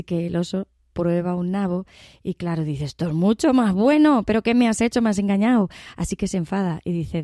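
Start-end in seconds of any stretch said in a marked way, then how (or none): 2.8-5.7 louder, higher, outraged bear; indignant bear accusing the farmer; angry bear. Acted. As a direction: let the bear bristle at being cheated. Bear realizes he was tricked.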